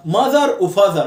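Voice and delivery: mother و father both ending in "thar"; wrong, over-even "mathar and fathar"; mistaken AR endings. Shown as a demonstration. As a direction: rhyme mother with father on full "ar". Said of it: "ولا".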